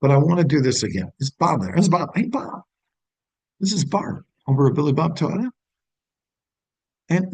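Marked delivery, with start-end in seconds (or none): 1.2-5.5 bright, high friendly greeting as if he knows you; familiar tone. Shown as a demonstration. Dealership rep calling Bob like an old acquaintance, friendly and familiar. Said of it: "I'm gonna redo that tone".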